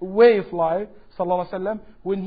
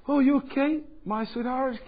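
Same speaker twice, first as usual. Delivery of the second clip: a gentle, caring wife's question, a touch softer; sweet and caring; 3 semitones higher, 5 dB quieter than usual. Retold or imitated. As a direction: ask kindly like a loving wife. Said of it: "In a very nice way".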